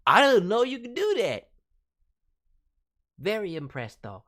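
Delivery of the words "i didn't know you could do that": loud, high, surprised exclamation; amazed listener. Retold or imitated. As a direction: gasp it out like a stunned fan. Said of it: "have 'em say".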